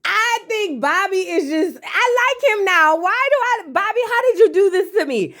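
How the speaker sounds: very high voice left over from a laughing fit; laughing amusement. Real, not acted. Host confesses liking Bobby, high-pitched and laughing. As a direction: squeal it through the tail end of laughter.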